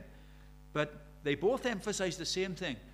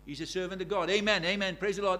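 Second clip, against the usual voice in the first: hyped-up preacher; 4 dB louder than usual. Retold or imitated. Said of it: "they wind up the congregation".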